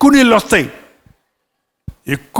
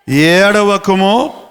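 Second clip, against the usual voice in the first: slow command; much slower than usual. Acted. Preacher reads God's command slowly.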